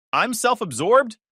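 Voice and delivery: high, loud and slow outraged yell; furious drunk shout. A narrator's reading. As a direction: hurl the question back at him. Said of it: "she yells, getting louder".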